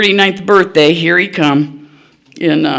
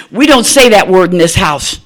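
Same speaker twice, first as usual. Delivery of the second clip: stern rebuke; 5 dB louder than usual. Retold or imitated. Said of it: "she knows I'm mad".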